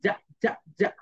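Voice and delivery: "যা" repeated softly; letter sound ja. Shown as a demonstration. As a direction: drill "যা". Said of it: "জেড sounds like জি".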